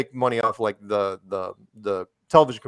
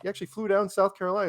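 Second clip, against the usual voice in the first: higher, mock-amazed question; retold amazement; 8 semitones higher, faster than usual. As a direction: play back your astonishment, pitched up.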